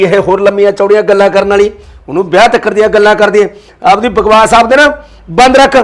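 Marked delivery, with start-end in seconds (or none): 3.8-5.8 louder, rising sharp command; angry order. Acted. Father angrily ordering his wife to let the daughter-in-law go. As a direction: shut her up and demand it.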